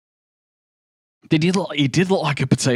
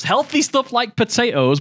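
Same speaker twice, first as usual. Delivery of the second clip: "Healthy stuff like potatoes?" said much higher, in disbelief; incredulous echo; 11 semitones higher than usual. Real, not acted. Streamer mocking a chat message about potatoes, incredulous high echo. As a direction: throw the chat's words back, high and incredulous.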